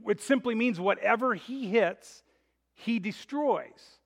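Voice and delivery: imitated Russian accent, slowing on the last words; lightly put-on Russian accent for a quoted boxing manager; thick Russian accent. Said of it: "cries out in his thick Russian accent".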